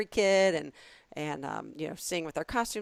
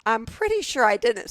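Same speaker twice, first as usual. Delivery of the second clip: firm denial; 5 semitones higher, 7 dB louder than usual. Retold or imitated. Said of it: "I go".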